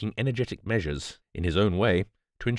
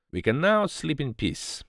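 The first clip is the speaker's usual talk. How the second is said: high, slow, pleased declaration; happy declaration; 8 semitones higher, slower than usual. A narrator's reading. Poirot beaming in the tent after his precautions, happy. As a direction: announce it with contented relief. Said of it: "he declared happily".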